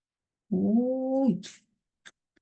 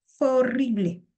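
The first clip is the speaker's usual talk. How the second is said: Fue horrible said higher, with a falling, dismayed tone; mock horrified; 5 semitones higher than usual. Teacher acts out the example line, mock horrified. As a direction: moan "Fue horrible" like a shaken witness.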